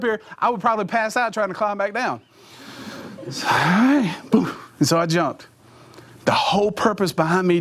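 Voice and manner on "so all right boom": breathless whisper before the leap; whispered self-pep. Retold or imitated. Preacher reliving the jump, whispering to himself. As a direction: whisper to yourself on the edge.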